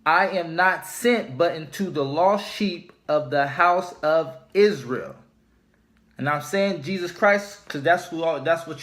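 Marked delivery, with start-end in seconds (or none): 0.1-5.2 solemn scripture reading. Acted. Rereads the red-letter verse.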